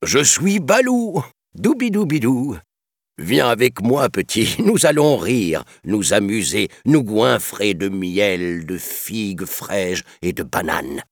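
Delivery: high, jolly singsong bear voice; Balou. A narrator's reading. Good-humoured bear inviting the boy to have fun, singsong. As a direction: croon the invitation, stretching the words playfully. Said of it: "une grosse voix fredonner".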